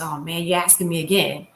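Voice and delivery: put-on grudging kid. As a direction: play the selfish kid who won't share. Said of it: "Don't say".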